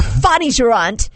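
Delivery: amateur British accent; light mock-British delivery; attempted British accent. Shown as a demonstration. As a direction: try the phrase as a would-be Brit. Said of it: "say these all with a British accent".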